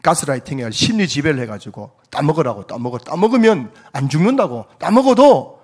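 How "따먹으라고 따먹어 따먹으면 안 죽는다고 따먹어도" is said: insistent devil pressing Eve, building to loud, high pushes; acted persistent urging. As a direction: keep pushing the temptation, louder and higher as it goes. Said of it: "마귀가 집요하게 하와에게 찾아와가지고". (집요하게 부추기며 점점 크고 높아지는 말투)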